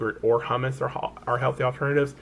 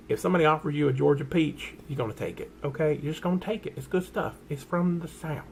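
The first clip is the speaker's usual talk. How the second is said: put-on playful Southern accent; 3 semitones higher than usual. Telling viewers about Georgia peaches, playful Southern accent.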